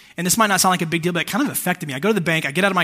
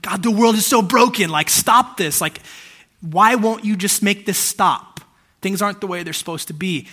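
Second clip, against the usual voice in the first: louder pleading cry to God; frustrated prayer; 3 semitones higher, 5 dB louder than usual. Retold or imitated. Preacher voices his prayer in the bank, pleading and frustrated. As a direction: beg God to make it stop. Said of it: "I'm just like".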